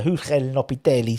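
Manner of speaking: slight Italian accent on Julen Lopetegui. Real, not acted. Host naming the Spanish manager by mistake in an Italian accent. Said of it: "said it with an Italian accent".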